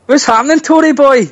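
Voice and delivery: teasing high call; high-pitched jeering hello; mock greeting. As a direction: sing it out high to needle him. Greeting a guest mockingly.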